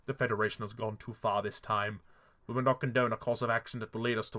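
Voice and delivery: lightly voiced stiff, flat-toned robot queen; a hint of a robotic monotone; low, stiff mock Amidala. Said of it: "weird she-male robot voice".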